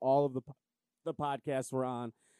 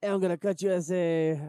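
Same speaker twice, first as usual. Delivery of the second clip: mocking put-on cartoon mouse voice, higher and louder; 5 semitones higher, 5 dB louder than usual. Imitating how the other player sounded: drunk Speedy Gonzalez voice. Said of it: "You sound like a mixture between, like, a drunk Speedy Gonzalez".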